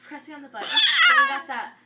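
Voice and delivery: giggling through the story; laughing while talking. Real, not acted. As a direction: talk through your laughter. Retelling the funny video.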